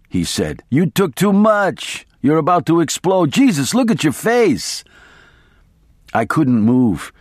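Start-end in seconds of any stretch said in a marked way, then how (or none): 0.7-4.8 higher, alarmed outburst; panicking at the look of his friend's face. A narrator's reading. Attorney sees the narrator's face.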